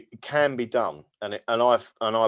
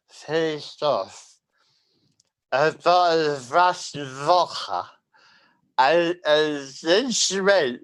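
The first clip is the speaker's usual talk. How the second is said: high, loud, slow mocking politician voice; drunken slurring Pelosi parody; Nancy Pelosi impression; 7 semitones higher, 6 dB louder, slower than usual. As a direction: ham up a tipsy Pelosi. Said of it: "That's my impression of Nancy Pelosi".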